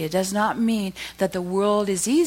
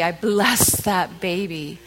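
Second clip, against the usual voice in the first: tender blessing; 3 dB louder, much slower than usual. Real, not acted.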